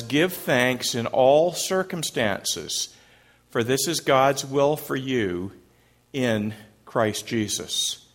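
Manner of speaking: slow, measured verse reading; scripture reading. Acted. Pastor reading the verse to the congregation, slow and measured. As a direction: read the verse slowly and deliberately.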